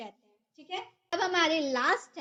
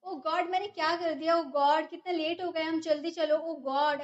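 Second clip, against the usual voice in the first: oops. Shown as a demonstration. Teacher acting out a panicked oops over a slip. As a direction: caught in a silly mistake. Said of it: "गलती हो जाती है तो हम बोलते हैं ना".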